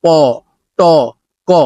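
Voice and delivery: প, ট, ক said with no puff of air; unaspirated sounds. Shown as a demonstration. Teacher contrasts the sounds with no air puff. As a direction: keep the breath in on প, ট and ক. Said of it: "তাহলে aspirated হবে না".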